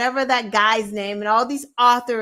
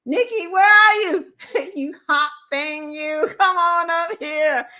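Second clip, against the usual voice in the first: louder, higher mock call; hammed-up Trump beckoning a singer up; imitating Trump calling out; 4 semitones higher, 3 dB louder than usual. Trump calls a singer onto the rally stage in a hammed-up mock call.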